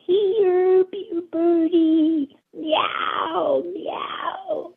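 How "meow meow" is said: a rising, yowling pretend meow; cat yowl. Cat calls the bird.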